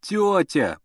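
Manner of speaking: high tearful call; tearful cry. A narrator's reading. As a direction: cry out near tears. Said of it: "плачущим голосом закричал".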